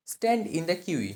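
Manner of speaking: stretched very slow, each word apart; very slow dictation. Shown as a demonstration. Teacher showing learners the phrase, very slowly. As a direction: drag every word out for the class. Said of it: "teacher models the English slowly".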